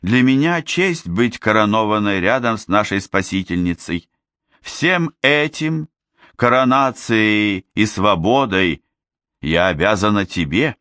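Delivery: a noble princess addressing her people; regal princess voice. Acted. Ozma speaks again.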